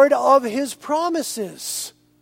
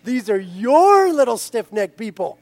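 laughing plea; 3 dB louder than usual. Acted. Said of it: "Moses goes".

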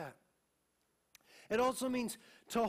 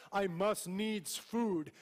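mock old-fashioned phrasing; 3 semitones lower, much slower than usual. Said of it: "We don't talk like that".

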